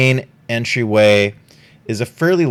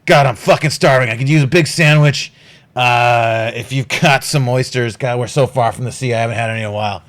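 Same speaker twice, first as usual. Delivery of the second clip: gruff captain; 3 semitones higher, 4 dB louder, faster than usual. Acted. GM voices Hostelon.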